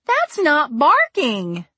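loud slow alarmed yell. A narrator's reading. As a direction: yell over the noise. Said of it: "Vree yelled".

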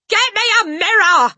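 high, loud demand; yelled order. A narrator's reading. Father demanding a mirror, frantic yell. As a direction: yell the order at your wife. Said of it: "the father yelled".

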